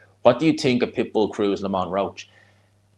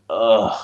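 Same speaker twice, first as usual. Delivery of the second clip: long exasperated "ugh"; drawn-out groan of weariness; 3 dB louder than usual. Acted. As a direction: groan like a fed-up listener. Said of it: "you're just like".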